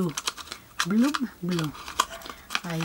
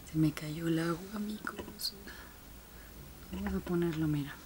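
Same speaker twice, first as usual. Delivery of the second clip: whisper; 5 semitones lower, 17 dB quieter than usual. Real, not acted. Spilled lens liquid, aside.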